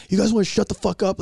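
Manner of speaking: mock a comic losing patience; retold frustration. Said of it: "he's getting frustrated".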